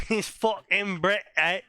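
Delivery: laughing into a fake British voice; mock British accent. Joining the friend's joke, mock British accent. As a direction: do a silly British caricature. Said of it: "he's British".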